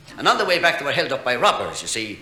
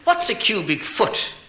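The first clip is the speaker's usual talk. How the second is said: slow question; 6 semitones higher, slower than usual. Retold or imitated. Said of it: "one said to the other".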